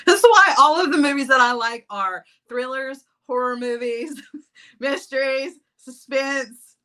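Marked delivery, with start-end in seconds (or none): none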